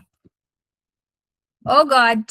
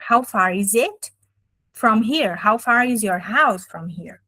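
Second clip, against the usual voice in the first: slow teaching example; slower than usual. Shown as a demonstration. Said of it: "a gente vai falar".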